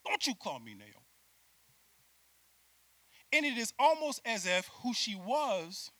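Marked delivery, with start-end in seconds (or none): 0.1-0.9 lashing out. Retold or imitated. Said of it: "causes Naomi to lash out".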